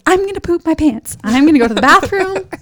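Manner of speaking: high, loud desperate cry; mock desperate yell; retold yelling. Laboring woman on the drive, yelling. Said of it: "what I was yelling on the way".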